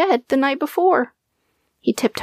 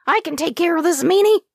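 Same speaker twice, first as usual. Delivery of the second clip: false bravado; 8 semitones higher, faster than usual. A narrator's reading. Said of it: "much more confident than he felt".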